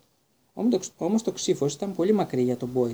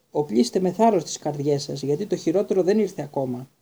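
loud, dramatic warning to take heart; knight's battle cry; 4 dB louder than usual. Acted. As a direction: proclaim it like a doomed hero. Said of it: "φώναξε ο υπότης".

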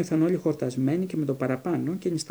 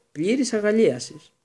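high, loud mock bliss; mock-rapturous; 7 semitones higher, 5 dB louder than usual. A narrator's reading. Twin shaking Harry's hand, mockingly overjoyed. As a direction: gush it with inflated ceremony.

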